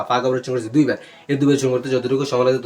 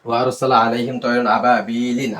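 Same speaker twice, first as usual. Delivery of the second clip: slow recitation. Shown as a demonstration. Teacher recites the verse.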